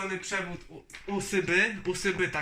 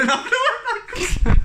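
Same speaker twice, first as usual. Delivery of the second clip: higher, louder excited outburst; excited shout; 11 dB louder than usual. Real, not acted. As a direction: blurt it out in delight. Reacting to first steering wheel.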